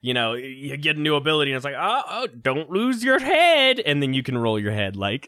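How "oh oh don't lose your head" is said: hammed-up game quip, higher, drawn out and loud at the end; milk the corny joke, pitched well up; corny one-liner. Game character quips at your new ability, mock-corny. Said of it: "it's pretty corny jokes".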